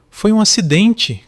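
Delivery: high, loud, slow desperate shout. A narrator's reading. Caio shouting at his father. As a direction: yell it out in panic. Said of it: "Caio gritou".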